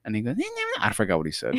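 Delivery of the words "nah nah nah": very high mock babble; squeaky little-kid mimicry; imitated little brother. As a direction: brush it off in a tiny high voice. Imitates little brother's brushed-off reply.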